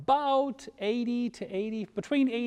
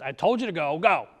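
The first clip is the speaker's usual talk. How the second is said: upset God; 7 dB louder, faster than usual. Acted. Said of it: "God gets kinda upset and says".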